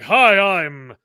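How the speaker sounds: slow, deliberate, no real voice put on; flat Clark Kent. Mocking Cavill's Clark Kent for the cohost, slow and flat. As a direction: say the name slowly without changing your voice. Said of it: "He didn't even do a voice".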